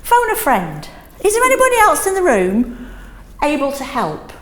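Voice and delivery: lively, bright game-show call for help; playful teacher prompt. Shown as a demonstration. Teacher to class, inviting a rescuer with a playful, rising call. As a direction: rise high on "Is there anybody else". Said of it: "I'll also say".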